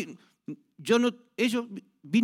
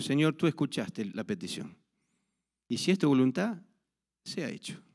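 lower, softer prayer fading into a breath on the last words; retold hushed prayer; 4 semitones lower, 5 dB quieter than usual. Pastor quietly praying over the woman's belly, softly fading. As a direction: pray it quietly, letting the end go almost silent.

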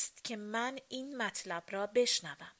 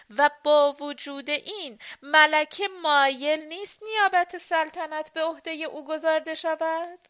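questioning; 6 semitones higher, 5 dB louder than usual. A narrator's reading. Question repeated, then answered loudly.

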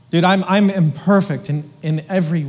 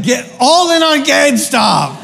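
hyped, higher call to buy; eager investor; 7 semitones higher, 6 dB louder than usual. Retold or imitated. Preacher joking he'd follow the pros, hyped. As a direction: pitch it like a hot tip. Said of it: "I'd be like".

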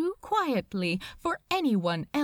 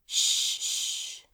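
hushing. A narrator's reading. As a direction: hush him like a frightened child. Steward hushing Crowley.

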